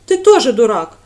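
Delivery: loud snapped retort; angry retort. A narrator's reading. Radda snaps back at Brent, loud and angry. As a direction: fling it at him in anger. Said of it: "в сердцах бросила девушка".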